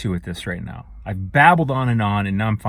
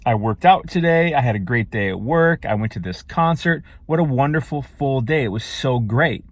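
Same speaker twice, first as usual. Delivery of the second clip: enthusiastic. Shown as a demonstration. Vlogger demoing how to praise a good day, enthusiastic. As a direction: gush about a wonderful full day. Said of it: "Do you hear the difference between saying that".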